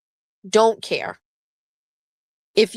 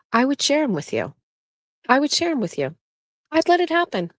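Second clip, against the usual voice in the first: mock sweet voice; 7 semitones higher than usual. Joking about sharing husband.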